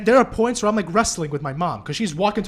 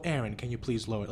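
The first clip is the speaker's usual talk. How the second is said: softer, lower, meek imitation of a mom; timid request; 7 semitones lower, 6 dB quieter than usual. Imagined mom asking son to lower TV, timid. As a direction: ask it gently, as if hesitant. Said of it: "just in a timid way".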